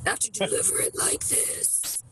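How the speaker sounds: slow breathy near-whisper; bad acting. Shown as a demonstration. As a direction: hush it to drain the weight away. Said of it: "takes a little bit of the weight out".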